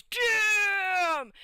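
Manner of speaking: high, loud, drawn-out exclamation; amazed damn. Retold or imitated. The whole party reacting to the price, loud and high. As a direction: let it burst out in awe. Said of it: "And everybody goes".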